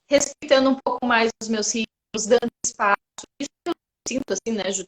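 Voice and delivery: talking with food in mouth; mouth full. Real, not acted. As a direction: speak through a mouthful, chewing. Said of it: "Tô falando de boca cheia". (falando de boca cheia, mastigando)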